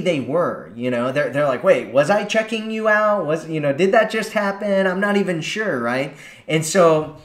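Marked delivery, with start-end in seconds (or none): 1.6-5.8 higher, puzzled voice of an unsure guy; a guy doubting himself, lightly voiced; confused guy. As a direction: wonder aloud if you really did it.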